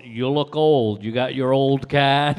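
loud, slow mocking clerk; mock accusation. Imagined clerk telling the customer he looks old, loud mocking. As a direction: hammer it in like an insult.

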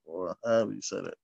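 ordinary delivery

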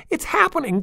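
put-on very high, loud child's shout; excited shout. A narrator's reading. Chaz shouts to her sister as the mound moves, excited. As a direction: cry out with thrill. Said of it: "Chaz shouted".

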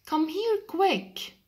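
high, urgent plea; urgent duck call. Acted. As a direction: call the chick over fast. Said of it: "Said the duck to the chick".

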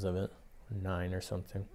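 talking around pipe stem; pipe in mouth. Real, not acted. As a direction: lips clenched on pipe. Seen 2: Pipe held by hand first; stem in mouth from 4.6 s to 9.6 s.

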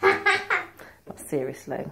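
said through a laugh, slow. Real, not acted. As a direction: laugh the words out. Mum laughing at pizza idea.

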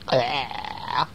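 spat-out groan of disgust; yucky-taste noise. Acted. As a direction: react to a nasty mouthful. Acting out tasting bad porridge.

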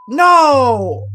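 loud frightened cry; panicked no. Real, not acted. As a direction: shout in panic. Another jumpscare.

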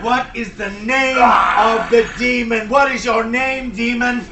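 demanding shout. Acted. Exorcist questioning the demon.

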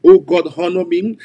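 loud praying call to God; fervent prayer. Acted. Preacher to congregation, fervent prayer. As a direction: cry out to God for honor.

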